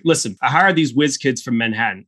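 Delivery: lightly imitated old Texan; Texan accent. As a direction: tell it as an old Texan storyteller. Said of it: "accent every single time".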